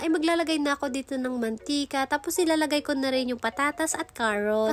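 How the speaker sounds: stuffy nose from a cold; blocked nose. Real, not acted. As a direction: talk through a blocked nose. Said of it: "Barado kasi itong ilong ko". (baradong ilong)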